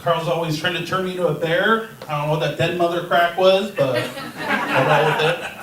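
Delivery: talking with gum in mouth; words around a wad of gum; chewing gum. Real, not acted. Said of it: "forgot I had gum in my mouth".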